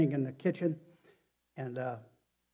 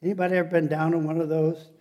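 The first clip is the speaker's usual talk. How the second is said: louder, quick question to the crowd; calling out; 3 semitones higher, 6 dB louder, faster than usual. Real, not acted. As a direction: press the congregation for a response, fast and loud. Preacher repeats question to congregation.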